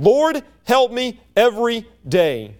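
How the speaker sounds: slow, deliberate prayer; spaced out word by word as an everyday appeal; steady daily plea. Acted. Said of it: "it's a continual and a daily".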